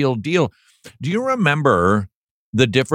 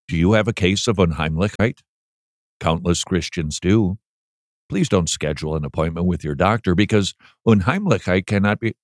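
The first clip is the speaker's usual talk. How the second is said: dull reading; 5 semitones lower than usual. Shown as a demonstration. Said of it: "That's how I want to read it".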